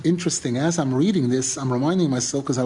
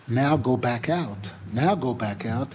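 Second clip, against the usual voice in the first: lower, deliberate let-down; sobering order; 4 semitones lower than usual. Retold or imitated. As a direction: bring it down low and measured. The hard setback after easy entry.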